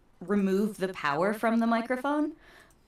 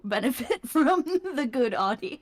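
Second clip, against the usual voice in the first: laughing; 4 semitones higher than usual. Real, not acted. Laughing through words.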